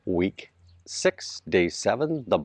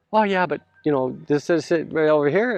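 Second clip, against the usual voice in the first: high put-on voice of a roofer pointing something out; retelling what the roofing guy said on site, in a high imitating voice; 6 semitones higher than usual. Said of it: "he turned around and said".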